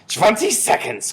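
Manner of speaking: slow, high, loud countdown; witch crying out. A narrator's reading. Grand High Witch counts down to transformation, crying out. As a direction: call it out drawn-out as a witch. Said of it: "cried the Grand High Witch".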